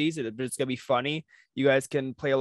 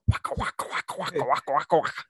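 Pac-Man chomping; faster than usual. Acted. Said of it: "Pac-Man".

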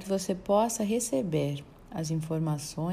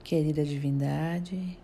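measured affirmations in short phrases with long pauses; guided meditation. Acted. Narrator guiding listeners through affirmations of God's power, meditative recitation. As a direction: recite it as a solemn prayer, leaving space after each phrase.

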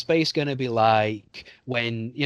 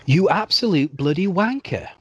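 broad British swear, said with relish; thick English accent; 6 semitones higher, 4 dB louder than usual. Pretend. A British guest plays up his accent for the host. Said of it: "in your thickest English accent".

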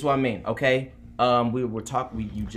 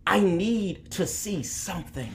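voice of the hurt; 5 semitones higher than usual. Acted. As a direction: speak for the wounded with righteous anger. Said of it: "I want to play the voice of the hurt".

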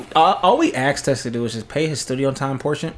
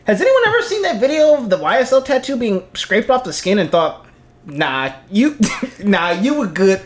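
whitest voice; 2 semitones higher than usual. Acted. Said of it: "the whitest voice you can do".

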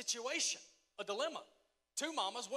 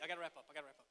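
fading off; 4 semitones lower, 7 dB quieter, much faster than usual. Real, not acted. Preacher winding down, voice fading.

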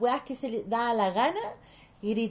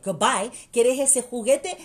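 mock goodbye to child; 7 dB louder than usual. Mother mocking a tantrum child.

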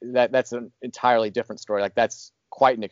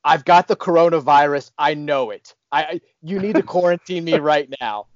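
loud, higher-pitched panicked demand; mock freak-out; 4 semitones higher, 4 dB louder than usual. Hospital patient demanding quarantine, mock freak-out. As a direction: imitate a man loudly freaking out. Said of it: "This dude next to us just freaks out".

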